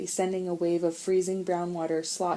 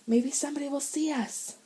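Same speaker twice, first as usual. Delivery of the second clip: higher hopeful voice; 9 semitones higher than usual. Acted. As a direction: say it with hope. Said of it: "asked Sean hopefully".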